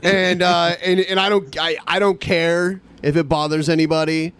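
high on weed; talking stoned; stoner. Real, not acted. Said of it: "because I'm high right now".

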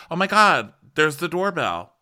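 high, loud delighted squeal; mock excited squeal. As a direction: shriek it like a discovery. Lisa finds doorbell on ass.

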